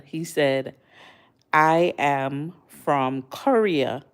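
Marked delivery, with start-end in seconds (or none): 1.5-4.0 slow, modest little statement; retelling a humble Korean YouTuber's answer, said slowly and modestly. Retold or imitated. Vlogger quoting the YouTuber's humble reply, slow and modest. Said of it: "And he said it very humble".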